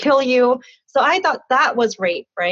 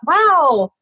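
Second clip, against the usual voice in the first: excited relief; 5 semitones higher than usual. Retold or imitated. Quoting her own relief.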